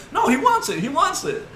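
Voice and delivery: very high, loud eager repeat; excited mock yell. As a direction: hype it up like you can't wait to fight. Joe eagerly accepting the fight.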